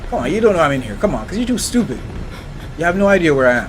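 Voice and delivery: loud taunt. Acted. Taunting the unseen monster.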